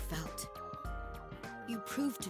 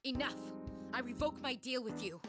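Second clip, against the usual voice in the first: higher-pitched, resolute vow; defiant declaration; 6 semitones higher than usual. Acted. Woman revoking her deal to save everyone, defiant. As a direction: stand up to it and proclaim.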